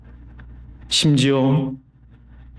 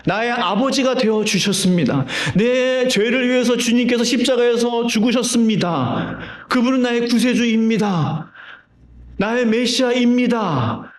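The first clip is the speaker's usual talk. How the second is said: high, earnest declaration of faith; heartfelt confession; 6 semitones higher than usual. Shown as a demonstration. Preacher voicing a believer's faith from the heart, heartfelt confession. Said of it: "가슴으로 믿는 믿음이에요".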